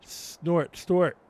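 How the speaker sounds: mild yell. Acted. Peppa calling back to Susie from upstairs, a light yell. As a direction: call it back brightly from the bathroom. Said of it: "yelled Peppa in response".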